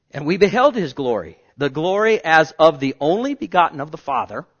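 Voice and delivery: loud, ringing scripture reading; booming pulpit reading; 1 proclaimed scripture. Real, not acted. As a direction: proclaim the verse with full force. Scripture reading rising in force.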